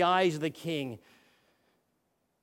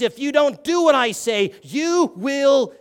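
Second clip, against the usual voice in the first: threatening king; 3 semitones higher, 6 dB louder, slower than usual. Retold or imitated. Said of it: "And he says".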